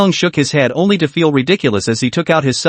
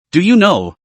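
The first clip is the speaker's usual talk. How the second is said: first ask held back, a little raised; a touch of an accusing father; mild angry question; 3 semitones higher than usual. Acted. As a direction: ask it firmly, saving the peak. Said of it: "his voice roared hoarsely".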